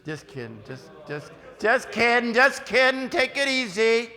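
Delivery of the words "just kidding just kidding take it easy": loud jokey reassurance. Acted. Joking to yawning student.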